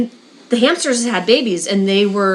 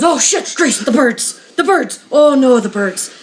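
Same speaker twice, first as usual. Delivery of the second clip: retold Irish shop owner, alarmed and pitched up; Irish accent; 2 semitones higher than usual. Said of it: "You're gonna do the accents".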